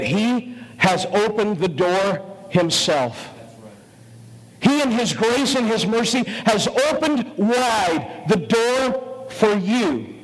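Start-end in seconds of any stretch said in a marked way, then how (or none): 4.6-10.1 preaching shout. Real, not acted. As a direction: lift it up and proclaim the open door. Preacher raises voice at climax.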